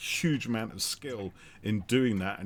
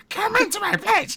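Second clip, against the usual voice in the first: exaggerated, full put-on witch voice; 10 dB louder than usual. Recalling a performer's recorded performance, the speaker repeats her line in full witch voice. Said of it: "She's going full witchified on that".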